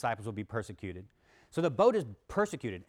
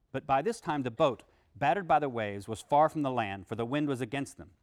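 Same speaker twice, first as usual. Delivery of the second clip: raised, deliberate reading voice; louder scripture reading; 3 dB louder than usual. Acted. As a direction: read the gospel text out to the class. Reads scripture passage aloud.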